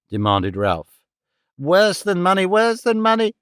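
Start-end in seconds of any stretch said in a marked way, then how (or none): 1.6-3.4 put-on high, anguished old man crying out; cried out. A narrator's reading. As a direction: wail it, pitched well up. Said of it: "cried the old man".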